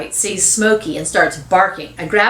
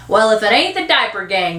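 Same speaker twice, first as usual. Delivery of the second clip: put-on lightly drawled older man; drawling; 3 semitones higher than usual. Old neighbour greeting the kids, drawling. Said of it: "the man drawls".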